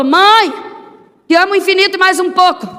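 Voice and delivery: put-on a small boy shouting to mom on his way to football; child calling out. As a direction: call out cheerfully like a little boy leaving to play.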